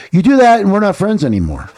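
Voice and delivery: high, loud ultimatum; a friend shouting a final warning; stern warning. Retold or imitated. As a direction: lay down the law to a friend. Carlos warning him sharply.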